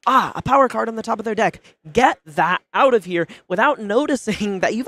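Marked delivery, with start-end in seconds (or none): 0.1-3.3 mock excited. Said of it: "get a little bit excited and just go".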